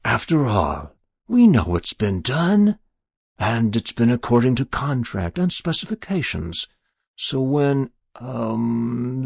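lightly voiced smooth-talking creditor; smooth stranger. Stranger reminding Jabez of contract and mortgage, smooth. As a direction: remind him of the deal, pleasantly.

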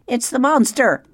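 high, loud screech of alarm. Acted. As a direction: shriek it out in panic.

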